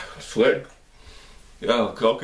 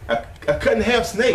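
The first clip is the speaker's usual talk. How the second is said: laughing in disbelief; 10 semitones higher than usual. Real, not acted. Reacting to cut snake video.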